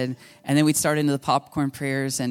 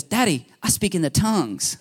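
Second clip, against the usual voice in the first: lightly voiced small child, higher pitch; three-year-old girl; 4 semitones higher than usual. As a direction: imitate a little girl proudly telling Daddy. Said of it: "three years old, and she goes".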